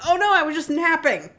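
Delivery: high, loud mock-innocent squeak; mock Juliet. Retelling Romeo and Juliet to a friend, high mock-innocent voice. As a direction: play Juliet as a ditzy, cheerful girl.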